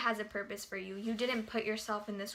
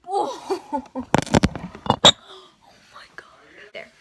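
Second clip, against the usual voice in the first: laughing; 4 semitones higher, 13 dB louder than usual. Real, not acted. Laughing fit after losing place.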